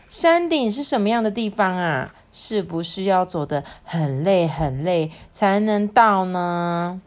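put-on slow, lilting read-aloud for children; storybook narration. A narrator's reading. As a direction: draw young listeners into the story, unhurried.

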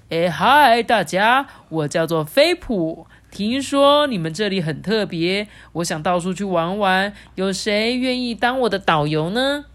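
loud, eager greeting; excited monkey. A narrator's reading. Monkey introducing himself to the penguins, excited. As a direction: announce yourself to the crowd with excitement. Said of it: "猴子们兴奋地说".

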